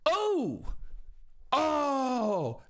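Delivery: mock commentator gasp; imitating Sanko's reaction. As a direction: mimic her wincing at a big hit. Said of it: "Sanko goes".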